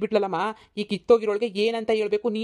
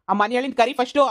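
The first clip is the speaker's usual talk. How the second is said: higher and louder, rising at the end; repeating the demand at full anger; angrier repeat; 3 semitones higher, 3 dB louder than usual. Acted. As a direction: raise it as he insists.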